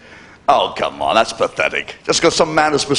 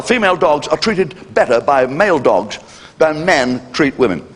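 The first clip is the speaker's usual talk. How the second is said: ordinary delivery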